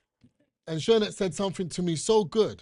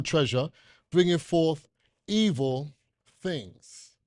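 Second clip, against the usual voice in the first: scripture reading. Acted. Rereads verse slowly.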